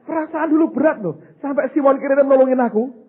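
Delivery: tiruan tokoh patung. Retold or imitated. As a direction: lightly act out the figure's grumble. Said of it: "Dia ngomongnya gini nih". (menirukan keluhan tokoh, suara agak tinggi)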